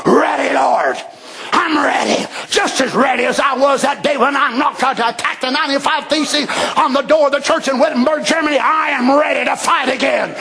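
a choked, eager answer; Luther, tearfully eager. Retold or imitated. Luther answering Jesus, ready to fight, choked up. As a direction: answer with tears of joy. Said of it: "He'll say".

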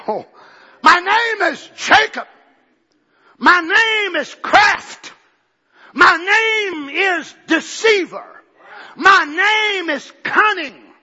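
a slow tearful cry as Jacob owns his names; crying confession. Acted. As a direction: wail each name slowly.

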